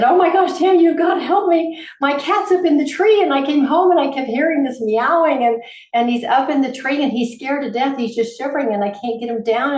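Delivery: high, breathless panic over a stuck cat; frightened caller begging for help, pitched high; panicked friend. Retold or imitated. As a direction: plead for help, near frantic. Friend panicking about cat in tree.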